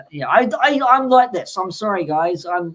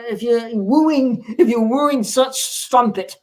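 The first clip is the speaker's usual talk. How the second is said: a touch of a hammed-up pirate, lightly pitched up; mock pirate; 4 semitones higher, 4 dB louder than usual. Podcast host advising listeners, in a mild mock pirate voice. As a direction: play a lightly voiced pirate wooing a lady. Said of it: "watching Pirates of the Caribbean too much".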